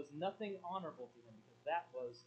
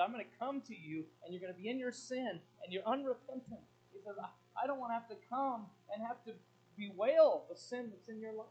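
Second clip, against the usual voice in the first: stern warning; 7 semitones higher, 10 dB louder than usual. Acted. God warning unrepentant Corinth.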